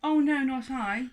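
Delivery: high, loud indignant cry; lady crying out. Acted. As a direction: fling up the denial. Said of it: "the lady cried".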